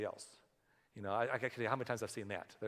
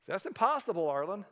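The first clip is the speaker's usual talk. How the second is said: higher, louder protest; imagined listener protesting; 6 semitones higher, 5 dB louder than usual. Pretend. Listener objecting to the pastor, loud and incredulous.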